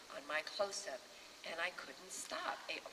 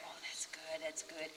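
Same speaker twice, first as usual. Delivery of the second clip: whispered murmur of pleasure; soft whispered approval; hushed mock-sensual murmur; 1 breathy pleasure; 6 dB quieter than usual. Retelling his pleasure.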